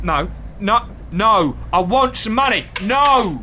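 annoyed. Real, not acted. Arguing with the machine.

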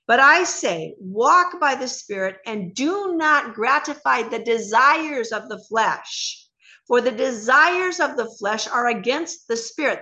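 measured, emphatic Bible reading; scripture reading. Acted. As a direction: read the verse out slowly and with weight. Reads Galatians aloud.

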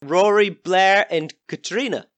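high, brash country villager; rough villager. Acted. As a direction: greet travellers as a nosy local. Villager Ian introduces himself.

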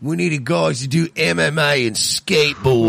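bad Australian accent; a clumsy stab at Australian. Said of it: "Would be the worst Australian accent ever".

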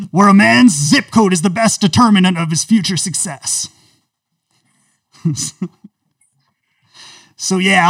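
loud coach addressing his team; booming locker-room speech; woke Jon Gruden. Acted. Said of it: "special character woke John Gruden".

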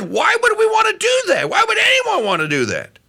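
high shouted why; shouting, then easing back; exasperated shout. Retold or imitated. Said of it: "And he says".

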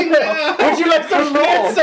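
slow, high hammed-up German accent; friendly German. Players mock good-guy Germans, slow high German accent. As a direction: offer schnitzel like a jolly German host.

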